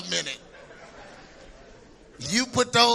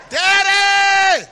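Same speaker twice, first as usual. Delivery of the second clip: put-on child's plea; 10 semitones higher, 9 dB louder than usual. Child crying out to father.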